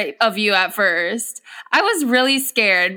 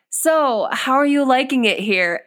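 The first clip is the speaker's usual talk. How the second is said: imitating a coworker's veiled warning, slightly higher; casual question hinting "get out"; loaded inflection; 3 semitones higher than usual. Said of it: "in the inflection in your voice".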